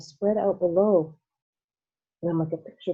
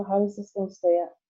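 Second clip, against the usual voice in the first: anxious cry; 4 semitones higher than usual. Acted. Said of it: "cried Grandpa Joe".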